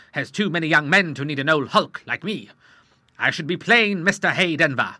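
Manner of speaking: loud, hearty sea captain; boisterous old admiral. Acted. Admiral telling the doctor he'll go to sea, loud and boisterous. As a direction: bluster through it like an old salt.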